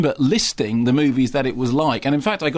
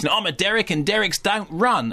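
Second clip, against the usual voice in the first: lightly voiced Kiwi accent, a bit higher; Derek's Kiwi accent; 6 semitones higher than usual. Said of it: "that's a Kiwi accent".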